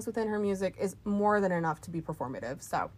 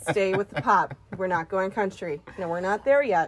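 pleading insist; 5 dB louder than usual. Retold or imitated. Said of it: "Where I'm like".

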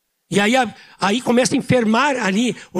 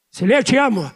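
louder and higher, a hearty loud declaration of love; speaking loudly; 3 semitones higher, 3 dB louder than usual. Shown as a demonstration. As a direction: say it out loud like a man who always talks loud. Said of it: "eu sempre falo alto". (dizendo alto, sem baixar a voz)

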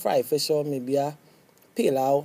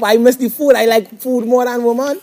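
loud and high, laughing through the words; laughing loudly through the joke; 9 semitones higher, 12 dB louder than usual. Real, not acted. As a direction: laugh it out while teasing. Teasing, laughing at food joke.

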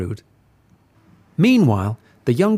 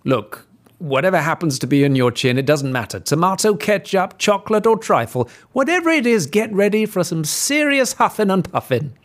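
blustering wolf; 7 semitones higher than usual. Acted.

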